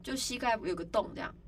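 imitating an unfazed casualty; very calm. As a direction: play the injury down coolly. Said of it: "他就很冷静啊".

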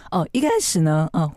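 cracking voice mid-word. Real, not acted. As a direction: voice breaks on the oh. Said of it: "破音".

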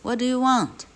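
high-pitched storybook shout; shouted demand. A narrator's reading. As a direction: call out a sharp question through the door. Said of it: "shouted the Welshman".

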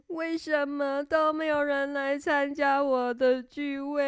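put-on a hurt child asking through tears; crying princess. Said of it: "她哭着说".

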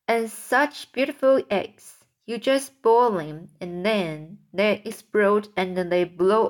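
sing-song poem recitation; a touch of a showman centipede reciting his rhyme; recited comic verse. A narrator's reading. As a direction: read it with bouncy rhythm, relishing the monsters.

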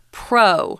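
pro said alone as a full PROH; stressed syllable shown. Shown as a demonstration. Teacher showing the stronger syllable, pro said as stressed PROH. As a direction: give pro a clear, full long O. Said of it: "the stronger accent".

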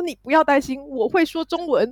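lightly imitated foreign accent on the Chinese; a hint of a foreigner's accent, slowing on 我会说中文. Retelling a foreign salesman to friends, mild foreign accent. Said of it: "他操着那个外国腔".

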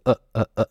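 "呃" as a short, unstressed uh; weak schwa. Shown as a demonstration. Teacher showing students the weak vowel, short neutral uh. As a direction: grunt "呃" with barely a move of the tongue root. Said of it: "你就稍微的舌根动一下就好了".

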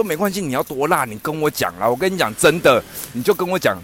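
老板一再催问; insistent vendor. Retold or imitated. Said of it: "我就照他原话讲哦". (照原话模仿老板追问)

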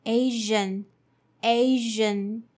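Asian as AY-zhun. Shown as a demonstration. Teacher putting Asian together. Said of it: "combining all together".

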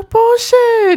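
high, loud laughing no. Retold or imitated. 学姐笑着大声否定我的答案，高声大笑. Senior laughs at wrong answer.

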